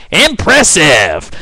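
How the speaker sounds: slow, drawn-out hammed-up Green Goblin taunt; mock villain line. Vlogger mocking the Goblin after a cop's punch, slow hammy taunt. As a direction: stretch the word out like a cartoon villain. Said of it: "He goes".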